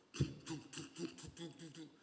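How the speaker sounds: rapid thumping heartbeat noise; imitated heartbeat. Preacher demonstrating the fetal heart sound on ultrasound, imitated heartbeat. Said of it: "심장 뛰는 소리가 얼마나 커요".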